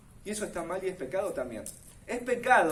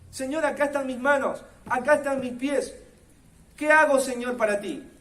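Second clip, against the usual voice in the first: fervent prayer; 5 semitones higher, 6 dB louder than usual. Acted. Believer's prayer voiced in sermon.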